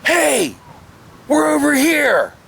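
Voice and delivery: high, sing-song mock call; retold call. Friend hiding in bushes, retold high teasing call.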